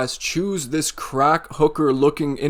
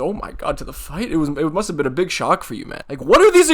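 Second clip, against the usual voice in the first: mock outrage; 2 semitones higher than usual. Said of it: "I can't even keep up the sarcasm".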